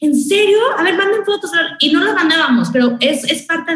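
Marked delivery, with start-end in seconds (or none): 0.0-1.5 curious listeners. Retold or imitated. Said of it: "toda la gente como de".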